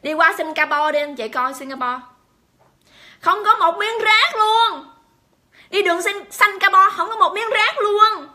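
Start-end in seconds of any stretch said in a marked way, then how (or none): 3.2-8.3 high, loud, drawn-out marvelling; real emphatic awe, pitched up; emphatic amazement. Real, not acted. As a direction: marvel slowly and loudly, stretching each word. Marvels at spotless Singapore streets.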